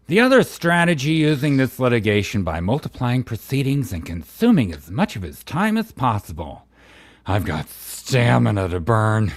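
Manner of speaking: hammed-up character reading with swooping pitch; theatrical reading, ending on a suggestive aside; Bubbles. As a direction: read legal text with campy flourish. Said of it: "read this in your Bubbles voice".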